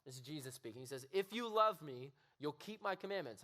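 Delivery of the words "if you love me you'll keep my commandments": stern God. Shown as a demonstration. Preacher voicing an angry God to the youth, loud stern demand. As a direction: bark it like a demanding master. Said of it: "And I used to read it like that".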